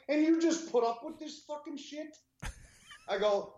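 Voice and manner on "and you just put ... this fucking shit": pitched way up in disbelief; can't believe they tolerate it; asking neighbors how they put up with it, disbelieving; incredulous. Retold or imitated.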